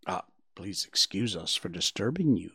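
soft, low and self-effacing; modest apology. A narrator's reading. Bambi excuses himself to the grasshopper, modest. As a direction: apologise modestly, keeping it small. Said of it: "said Bambi modestly".

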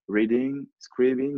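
English words with a French accent; real French-accented English. Real, not acted. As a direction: say the English terms as a French speaker would. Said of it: "vous m'excusez pour l'accent".

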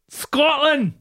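high, bright call of the place name; excited greeting. Real, not acted. Host welcomes a Scottish listener with an excited call. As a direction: hail it like a cheer.

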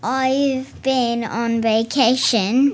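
slow, lightly put-on accent; Accent Girl. Accent Girl tells the host where she's been, slow put-on accent. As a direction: draw it out in Accent Girl's accent. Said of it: "Is that where your accent".

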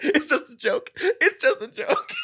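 high, loud, strained mock cry; imitated teary protest. Man wiping tears after the prank, mock wailing. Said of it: "wiping tears from his eyes".

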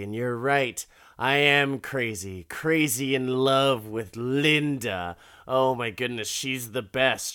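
playful impression of a man crazy in love; mock lovestruck gushing. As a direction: gush like a smitten old man, in jest. Old man raves about his love.

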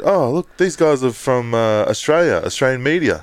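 high mock voice of an excited Brit; imitating expat Brit. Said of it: "He, like, turned to his mate".

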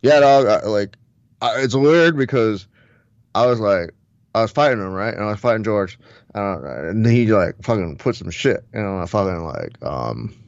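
rambling fighter-bro impression; Diaz brothers. Fighter telling the host about being drugged, rambling impression. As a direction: stumble through it like a dazed stoner fighter. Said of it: "the Diaz brothers".

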